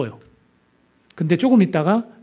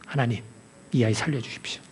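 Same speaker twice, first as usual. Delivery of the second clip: softer, lower pleading prayer; hushed prayer; 4 semitones lower, 7 dB quieter than usual. Acted. Elisha praying over the dead boy, softer and lower. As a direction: plead quietly with God.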